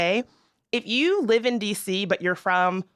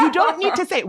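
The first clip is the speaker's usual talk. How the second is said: high, louder, laughing through it; laughing repeat; 8 semitones higher, 4 dB louder than usual. Acted. Host repeats her scolding, laughing it out. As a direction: crack up while scolding.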